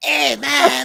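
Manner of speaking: loud, high-pitched cartoon voice, called out. Quoting South Park: Eric Cartman impression. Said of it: "the Eric Cartman".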